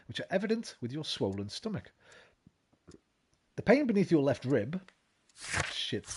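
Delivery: lightly voiced formal doctor's letter; reading a letter aloud. Streamer reading the doctor's letter to chat, formal read. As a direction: read the physician's note with measured formality.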